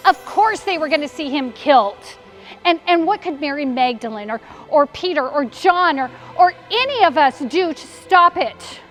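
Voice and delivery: worked-up, despairing rant; anguished outburst. Acted. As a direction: build to a helpless, frustrated cry. Mary's outburst over his death.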